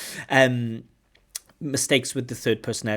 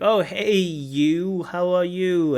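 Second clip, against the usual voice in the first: bright called-out greeting, louder and higher; mock cheery greeting; 6 semitones higher, 7 dB louder, slower than usual. Teacher acts out greeting a half-known acquaintance, cheery and loud. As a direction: hail someone whose name you forgot. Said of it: "when I meet them, I say, like".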